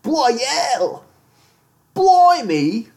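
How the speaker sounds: high, hammed-up British exclamations; drawn-out mock British squawk; trashy British accent. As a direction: put on a silly, high British voice. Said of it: "Do the rest of it in that voice".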